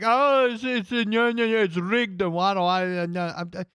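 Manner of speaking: whiny, sputtering impression of an angry fan; mocking a sore loser. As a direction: sputter like a man crying that it's rigged. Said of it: "That he was like".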